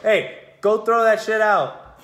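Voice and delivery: put-on dad ordering kid to take the trash out, firm and loud; stern parent order. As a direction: bark it out like a dad. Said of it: "you're just like".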